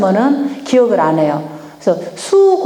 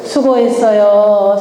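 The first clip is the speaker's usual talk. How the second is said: slow demo; much slower than usual. Shown as a demonstration. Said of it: "자, 수는 뭐라고요?".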